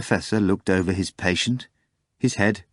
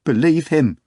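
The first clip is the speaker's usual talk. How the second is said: high, loud imploring; passionate pleading; 7 semitones higher, 5 dB louder than usual. A narrator's reading. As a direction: beg him with passion. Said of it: "implored passionately".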